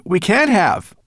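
stammered loud protest; insist, high and alarmed; crying out. A narrator's reading. Ben doubting they have arrived, crying out. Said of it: "cried Ben".

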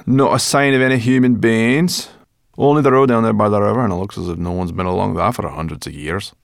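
loud character voice, easing towards the end; brash voice settling as it goes on; Sorrel, brusque companion. A narrator's reading. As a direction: announce it brashly.

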